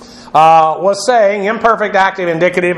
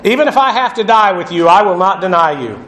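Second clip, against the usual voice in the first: insistent. Acted. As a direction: insist on it, then come down firmly. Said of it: "Peter kept saying insistently".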